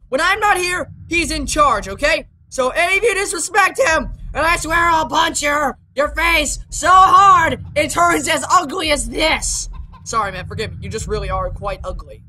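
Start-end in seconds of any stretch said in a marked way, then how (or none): 2.5-9.7 mock threat. Threatening disrespecters.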